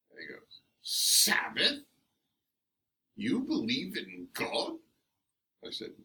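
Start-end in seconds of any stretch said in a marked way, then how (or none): 0.8-4.8 high, loud mock disbelief; incredulous. Dennis mimics the physics student's incredulous question. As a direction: mimic a shocked sceptic. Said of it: "continuing with the incredulity in his voice".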